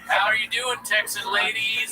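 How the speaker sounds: lightly voiced Irish comic; Irish accent. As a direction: greet Texan ladies in a mock Irish accent. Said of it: "if you said that in Ireland".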